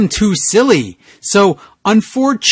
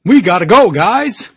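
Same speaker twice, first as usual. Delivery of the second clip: growled. Acted. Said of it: "He growled metal".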